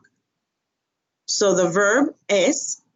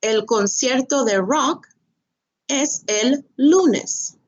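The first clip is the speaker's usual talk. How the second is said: es el lunes drawn out slowly, higher; slow clear answer; 3 semitones higher than usual. Shown as a demonstration. Teacher modelling the answer slowly to students. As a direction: stretch lunes out for learners. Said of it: "So here we have the subject".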